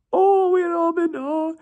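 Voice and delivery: put-on slow, very high falsetto babying; patronizing coo. Friend patronizing an annoying Robin with a slow high coo. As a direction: talk down to him sweetly to wind him up. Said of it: "to be patronizing and to wind me up".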